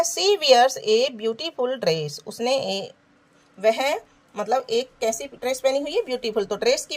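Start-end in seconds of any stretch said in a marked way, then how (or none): 0.0-2.2 very slow, word by word; slow dictation. Shown as a demonstration. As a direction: spell it out in time for pupils. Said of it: "reads exercise sentence aloud".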